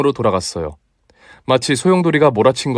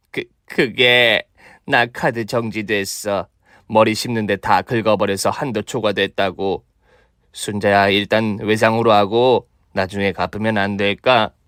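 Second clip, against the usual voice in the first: timid excuse; 2 semitones lower than usual. Acted. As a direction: wheedle for credit. Mother-in-law sheepish excuse. (쭈뼛거리는 변명)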